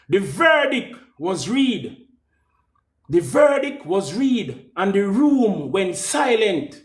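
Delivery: solemn narrator voice; dramatic storytelling. Acted. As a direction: announce it like a courtroom drama.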